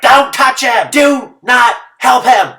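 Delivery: high, loud, slowed shout; imitated yelling. Spectators warning a rafter off the runner, high shout. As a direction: yell the warning across the river.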